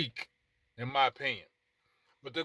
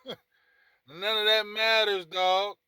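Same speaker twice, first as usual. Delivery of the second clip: slow, loud and higher, laughing through it; laughing emphasis; 6 semitones higher, 6 dB louder, much slower than usual. Real, not acted. Laughing as he tells Dak his season doesn't matter. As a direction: drag it out, laughing at the idea.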